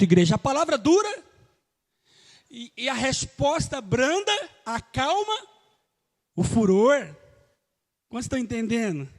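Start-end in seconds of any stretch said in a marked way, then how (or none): 0.3-7.2 louder repeat of "A palavra dura"; said again louder. Shown as a demonstration. Pastor leading the church to repeat it loudly. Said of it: "Fala de novo, bem alto".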